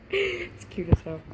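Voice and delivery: high, slow laughing squeal; squealing with laughter. Real, not acted. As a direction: giggle through the words. Reader laughs saying it.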